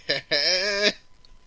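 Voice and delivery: high, loud drawn-out laugh; high-pitched mock Hulk chuckle; imitated Hulk laugh. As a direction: laugh loudly as the Hulk, played for comedy. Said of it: "the Hulk's just looking at him like".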